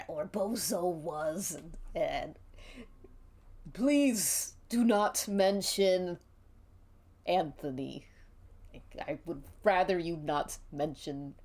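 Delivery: hesitant clown voice, halting and pleading; a clown stalling, uneasy and begging; nervous clown. Acted. Giggles, nervous, answering the accusing player.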